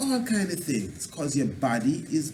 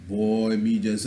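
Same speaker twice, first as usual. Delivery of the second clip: weary patois lament; 5 semitones lower, slower than usual. Shown as a demonstration. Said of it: "when people speak like that".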